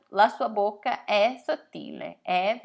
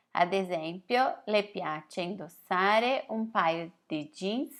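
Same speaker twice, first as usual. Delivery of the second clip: reading an Italian passage slowly, word by word; slow text reading; slower than usual. Acted. Teacher reading an Italian text to her students, slow and clear.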